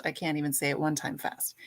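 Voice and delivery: fast whisper to herself; whispered aside. Real, not acted. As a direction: mutter it under your breath, quickly. Whispered aside after stumbling on name.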